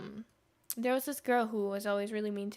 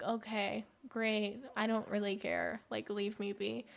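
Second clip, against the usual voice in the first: couldn't care less, let it drop away; bored dismissal; 2 semitones lower, 6 dB quieter than usual. Retold or imitated. Telling gossiping roommates to leave her be, bored and soft.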